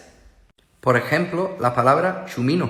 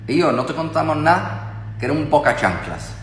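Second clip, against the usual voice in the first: put-on Huelva accent; 3 semitones higher than usual. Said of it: "en Huelva dicen".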